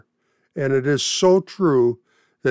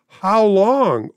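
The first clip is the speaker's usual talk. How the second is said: higher, louder cry; 5 semitones higher, 4 dB louder than usual. Acted. Martyrs under the altar cry to God, raised voice. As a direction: call out to the Lord. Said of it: "they are crying out".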